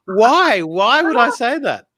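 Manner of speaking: high, slow, disbelieving self-reproach; mortified. Retold or imitated. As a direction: agonise over the blunder. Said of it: "I was like".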